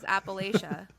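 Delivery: Appalachia with LAY in the middle; friend's regional pronunciation. Retold or imitated. Citing a friend in the Poconos, Appalachia said appa-LAY-shuh. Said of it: "my friend in the Poconos says".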